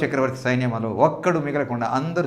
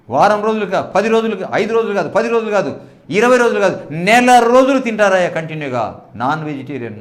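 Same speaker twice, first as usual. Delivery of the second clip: higher, louder building promise; God promising; 3 semitones higher, 5 dB louder than usual. Acted. God assuring Moses of meat, rising emphatic voice. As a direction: pile it on, louder each time.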